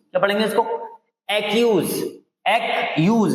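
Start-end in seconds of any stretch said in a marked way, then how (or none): 1.3-3.3 "एक्यूज" said clearly as e-kyooz, stress on the second syllable; pronunciation demo. Shown as a demonstration. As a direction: model "एक्यूज" for the class, rhyming with यूज. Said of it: "इसका pronunciation है एक्यूज". ("एक्यूज" को यूज की तरह साफ़ उच्चारण में)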